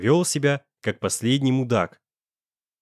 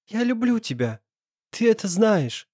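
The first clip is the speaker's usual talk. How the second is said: higher, suddenly hoarse voice; hoarse confession; 9 semitones higher than usual. A narrator's reading. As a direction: confess love with a voice gone hoarse. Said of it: "резко осипшим голосом". (осипшим голосом)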